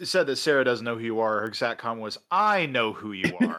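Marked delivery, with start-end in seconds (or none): 2.3-3.6 knowing tone. Retold or imitated. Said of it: "in that tone".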